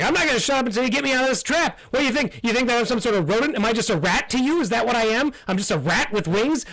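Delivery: high, fast, squeaky indignant rant; squeaky outraged bat. Acted. GM voices trapped bat.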